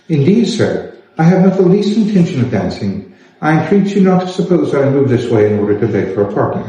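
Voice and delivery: a hint of polite, cool refusal; Elizabeth refusing. Elizabeth refuses Sir William.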